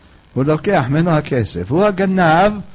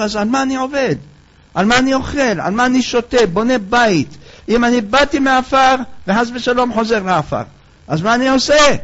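lament; 5 semitones higher than usual. Acted. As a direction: ask in despair what it's all for. Weeping man laments.

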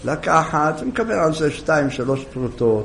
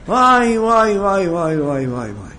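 amazed wail, fading. Acted. Wife wailing at the mud-covered donkey. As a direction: wonder that trails away.

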